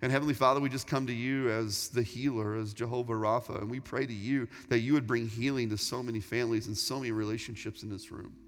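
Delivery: prayer. Acted. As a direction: pray humbly and steadily for the room. Leads the closing prayer.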